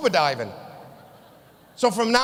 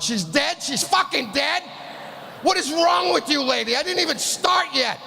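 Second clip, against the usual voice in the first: outraged disbelief; 4 semitones higher than usual. Retold or imitated. Outraged at hygienist.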